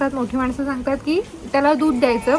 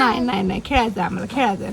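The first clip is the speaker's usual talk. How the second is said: voicing baby; 5 semitones lower, much faster than usual. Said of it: "speaking as baby".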